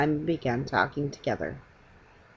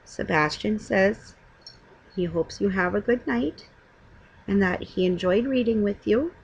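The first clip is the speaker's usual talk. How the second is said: bedtime goodbye; 2 semitones higher than usual. Real, not acted.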